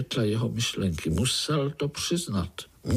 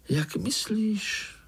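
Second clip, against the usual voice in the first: offended; 10 semitones higher, slower than usual. A narrator's reading. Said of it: "urazila se zlatá muška".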